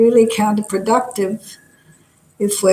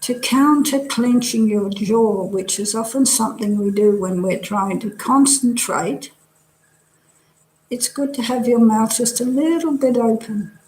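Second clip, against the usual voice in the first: measured body-scan guidance with long pauses; guided meditation. Real, not acted. Teacher leading students through a relaxing body scan, guided meditation. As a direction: guide them gently from one body part to the next.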